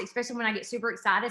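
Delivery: rattling along quickly when excited; quick, eager rush of words; fast talking. Real, not acted. Professor warning the audience she talks fast, fast talking. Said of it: "I talk really fast".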